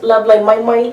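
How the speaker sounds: put-on sing-song Asian accent on Lovely Ming Ming; correcting the host in a mock Asian accent. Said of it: "You gotta get into that Asian accent".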